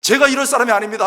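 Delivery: retold protest that swells to an outburst; complaining to God. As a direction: plead your grievance, hammed-up. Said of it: "딱 막 삼십 분 동안 막 불평했습니다".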